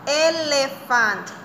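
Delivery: slow, drawn-out Elephant with every syllable clear; slow model word. Shown as a demonstration. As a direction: say Elephant slowly for children to repeat. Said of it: "Say it".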